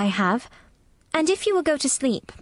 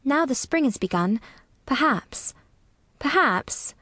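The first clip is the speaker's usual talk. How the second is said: gently slow, low storytelling voice; 4 semitones higher than usual. A narrator's reading. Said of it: "very slowly and in a very low voice".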